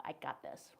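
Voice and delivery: unvoiced whisper; whispered quote. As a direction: breathe it out like a secret.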